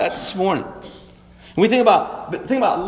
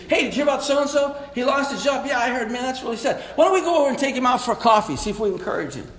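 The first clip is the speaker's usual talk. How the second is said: compassion voice; 2 semitones higher, faster than usual. Shown as a demonstration. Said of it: "Compassion is".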